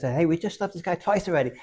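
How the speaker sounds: high, slow laughing shout; laughing call. Retold or imitated. Dancer calling out in story.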